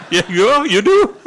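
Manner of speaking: put-on laughing at the offer of girls; laughing disbelief. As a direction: laugh through the question.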